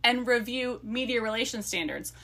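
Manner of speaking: lively book-blurb read; reading a blurb aloud. A narrator's reading. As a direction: read the romance teaser with relish.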